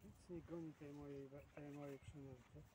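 ordinary delivery

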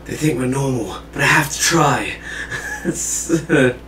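anime protagonist voice. Pretend. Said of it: "stereotypical anime protagonist voice".

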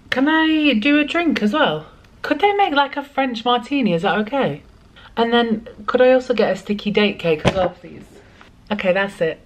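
polite phone voice. Real, not acted. Calling room service on phone.

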